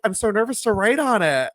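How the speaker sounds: high-pitched mock nerves; retold nervousness. Stacy about to write on his picture, imitated high nervousness. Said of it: "she was like".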